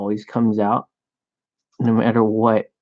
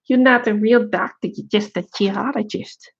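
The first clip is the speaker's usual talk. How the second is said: put-on judgmental Asian accent; 9 semitones higher than usual. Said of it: "like, judged".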